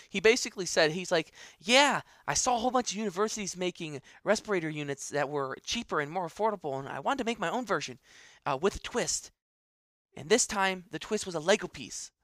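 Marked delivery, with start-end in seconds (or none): 1.6-12.1 lightly voiced twelve-year-old boy, pitched up; Anthony. Podcast host quoting a young inventor, lightly put-on boy's voice. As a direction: put on a hint of an eager kid's voice, a bit higher. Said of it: "That's Anthony's voice".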